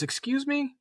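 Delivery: mock disbelief, pitched very high; incredulous. Teacher to cadet claiming his dad and sister, incredulous. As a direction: imitate a stunned, high-pitched double take.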